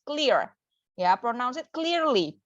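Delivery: slow, deliberate "clearly"; clear enunciation. Shown as a demonstration. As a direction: pronounce "clear" and "clearly" distinctly. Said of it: "kamu tuh ngomong harus jelas".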